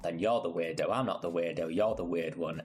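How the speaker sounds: mock-defensive teasing; playful taunt. Real, not acted. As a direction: throw it back at them, joking.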